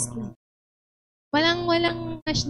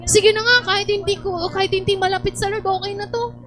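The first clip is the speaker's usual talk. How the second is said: higher, hammed-up shrugging it off; mock resigned prayer; 6 semitones higher than usual. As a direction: churchgoer shrugging off a godless boyfriend, mock resigned.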